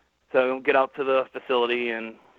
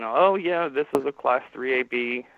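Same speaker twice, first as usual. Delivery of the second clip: higher, louder "oh, yeah", easing off; retold instant recognition; 3 semitones higher, 6 dB louder, slower than usual. Spine doctor reading the patient's scan, retold instant recognition. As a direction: imitate a doctor spotting it at once.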